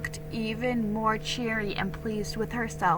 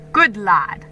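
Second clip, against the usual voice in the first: pleased praise; 8 dB louder than usual. Acted. Father pleased.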